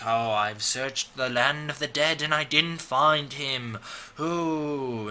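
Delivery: slow, drawn-out mystical gypsy act; gypsy lady. Retold or imitated. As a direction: intone it slowly like a fortune-teller, ending on "ooh". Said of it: "like, a gypsy lady is like".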